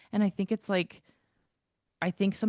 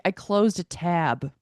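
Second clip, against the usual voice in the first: slow, slightly louder imitated admission; retold matter-of-fact admission; 5 dB louder, slower than usual. Imitating his answer about the scream, slow matter-of-fact admission. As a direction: own up slowly as if it were nothing. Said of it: "He's like".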